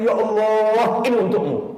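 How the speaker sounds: slow, drawn-out devoted "Ya Allah"; tender slow dedication; heartfelt offering. Shown as a demonstration. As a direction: offer it sincerely to God. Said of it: "Nggak kita hayati, nggak kita resapi".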